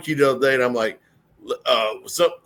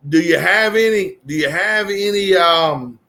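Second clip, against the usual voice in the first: mock polite order; 3 semitones higher, slower than usual. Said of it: "What's wrong with that".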